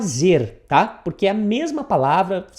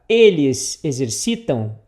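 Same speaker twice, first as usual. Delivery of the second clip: word-for-word gloss; 5 semitones lower, slower than usual. Shown as a demonstration. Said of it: "o que que ele quer dizer aqui".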